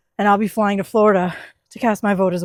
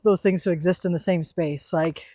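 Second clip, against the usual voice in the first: whispering; 2 semitones lower, 6 dB quieter than usual. Real, not acted. Emotional aside about father's cancer.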